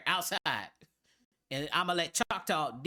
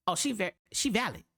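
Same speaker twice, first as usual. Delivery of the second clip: welcoming excitement; 4 semitones higher, faster than usual. Retold or imitated. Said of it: "I was like".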